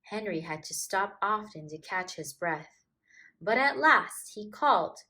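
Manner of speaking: put-on gentle storybook reading to children; story narration. A narrator's reading. Storyteller reading a picture book to kids, gently. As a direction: read it like a bedtime picture book.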